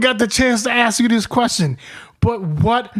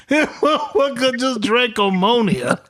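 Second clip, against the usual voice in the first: tearful laughing disbelief; 3 semitones higher than usual. Retold or imitated. Friend retelling the ammonia drink, laughing disbelief. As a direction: voice breaking with laughter.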